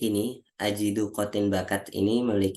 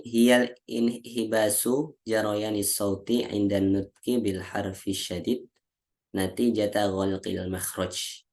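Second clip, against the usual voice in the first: slow recitation; slower than usual. Shown as a demonstration. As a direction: recite the Arabic definition slowly and deliberately. Recites Arabic definition. (bacakan definisi Arab dengan pelan dan khidmat)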